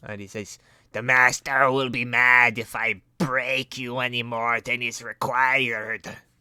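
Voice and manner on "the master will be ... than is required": put-on Slavic accent. Narrator voicing a creature that caught the player rummaging, in an Igor voice. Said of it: "Sounds like an offensive Mexican accent".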